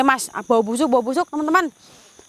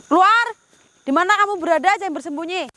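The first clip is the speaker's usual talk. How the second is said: calling out; 4 semitones higher than usual. Real, not acted. Calling out the hidden spirit.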